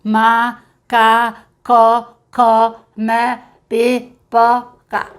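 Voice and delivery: very slow, loud, monotone syllables; syllable-by-syllable reading. Shown as a demonstration. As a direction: imitate a beginner sounding out every syllable. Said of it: "Se ele começar".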